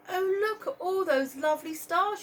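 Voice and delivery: Marie's voice. Acted. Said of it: "she said".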